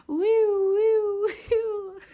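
loud, high-pitched "woo" like a police siren; mock siren wail. Driver telling how police suddenly appeared, mock siren wail. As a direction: wail like a siren, breaking into laughter.

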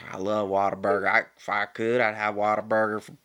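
gushing Texan food fan; emphatic, lightly imitated Texan enthusiasm; passionate Texan cousin. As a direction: rave about it with a hint of Texan twang. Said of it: "She's very passionate. very into it".

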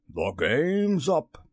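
slow, high, drawn-out exclamation; impassioned captain's lament; passionate cry. A narrator's reading. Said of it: "Then at last he spoke passionately".

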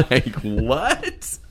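high, laughing "what?". Real, not acted. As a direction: lose it laughing in disbelief. Laughing disbelief.

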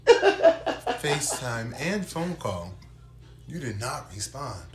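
loud, high, laughing passive-aggression; politely impatient. Acted. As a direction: read it like an annoyed email. Mock passive aggressive email.

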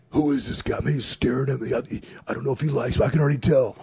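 a touch of mock nerves, voice up; nervous new guy. Officer unsure if the new boss likes him, mildly nervous. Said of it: "was like".

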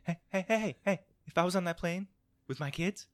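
put-on high-pitched Boston accent, stuttering hey hey; Mark Wahlberg Boston accent. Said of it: "I've got horrible Mark Wahlberg".

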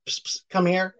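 hushed, sly come-hither whisper; psst for attention. Retold or imitated. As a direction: call someone over on the sly. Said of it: "a Santa Claus that goes".

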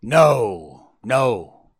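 loud, hard refusals; restrained howl, punched out. A narrator's reading. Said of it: "the dog howled".

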